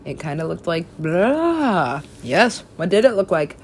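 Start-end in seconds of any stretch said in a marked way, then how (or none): 1.0-2.0 put-on "blah" bull noise; imitated bull noise. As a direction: blurt a drawn-out mock bull cry. Imitates how the bull looked.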